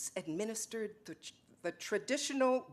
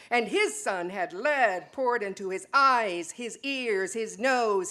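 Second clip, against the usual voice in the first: building litany; 6 dB louder than usual. Acted. Litany of persecuted sons.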